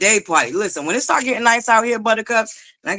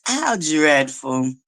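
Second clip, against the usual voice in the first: slow, drawn-out mock snootiness; Dwight voice; 4 semitones lower, much slower than usual. Showing the chat her Dwight voice, slow and snooty. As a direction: drag it out in a put-on Dwight voice. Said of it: "in my Dwight voice".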